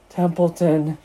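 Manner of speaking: mildly desperate call of a name. A narrator's reading. Pig interrupting the rat, desperate. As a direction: cut in with a touch of desperation. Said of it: "said Wilbur in desperation".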